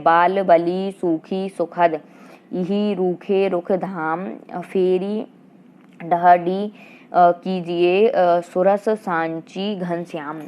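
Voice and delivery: slow, measured verse reading; a teacher reciting Hindi verse for the class; poem recitation. Acted. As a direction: read the couplet aloud like a poem, slowly. Teacher recites couplet in quiz.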